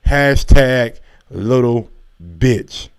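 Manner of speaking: "Hashtag little bitch" drawn out slowly, each word weighted; heavy emphasis. Shown as a demonstration. Reading Oscar's tweet insult to Dana, slow and emphatic. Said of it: "a whole lot of emphasis on the word bitch".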